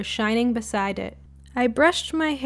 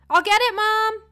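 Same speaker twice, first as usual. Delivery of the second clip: high called-out shout to mom; high voiced call toward mom; yelled; 12 semitones higher than usual. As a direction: call through the house, high. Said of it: "I yelled".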